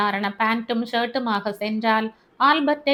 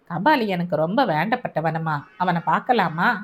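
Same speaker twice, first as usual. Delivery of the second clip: lower, steady man's voice; Albert, calm officer; 5 semitones lower than usual. Acted. Albert comforting the grieving mother, low and steady. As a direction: soothe her in a low, even tone.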